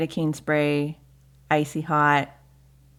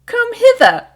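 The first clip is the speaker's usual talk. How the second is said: high, loud holler to parents; mock-grand shouted call; yelled summons; 10 dB louder, slower than usual. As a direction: call them over across a field. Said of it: "And I just yelled".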